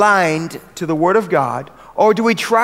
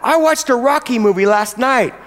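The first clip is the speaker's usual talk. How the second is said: eager chatter. Pretend. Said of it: "suddenly you go".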